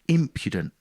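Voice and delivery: "impudent" with the weight on IM, IM-pyu-dent; stress on first syllable. Shown as a demonstration. Showing the host the correct way to say "impudent", stressing IM. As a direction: land hard on the IM of "impudent", falling off after. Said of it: "with the emphasis on the first syllable".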